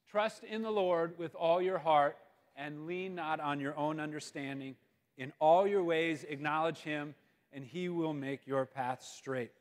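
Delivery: slow, measured group verse reading; leading recitation. Real, not acted. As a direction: read it out slowly so everyone can join in.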